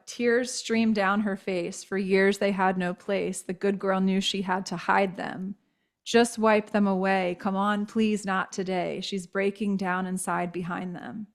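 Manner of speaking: slow, measured recital of a poem; slow reading of her own poem. Acted. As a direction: read each line slowly and tenderly.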